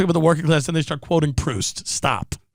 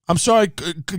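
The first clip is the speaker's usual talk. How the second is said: ordinary talk, nothing marked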